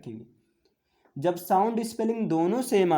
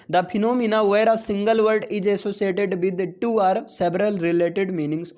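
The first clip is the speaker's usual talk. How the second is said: slow reading aloud; much slower than usual. Acted. Reads the question aloud.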